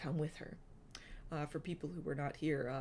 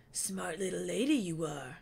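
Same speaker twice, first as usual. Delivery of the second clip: Wingtip's voice. A narrator's reading. Wingtip's held voice.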